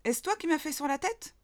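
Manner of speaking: a little mole yelping up at the pigeon. A narrator's reading. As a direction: yelp it up at the bird. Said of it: "glapit-elle".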